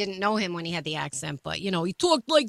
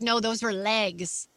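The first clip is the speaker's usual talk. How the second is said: blunt doctor; slower than usual. Retold or imitated.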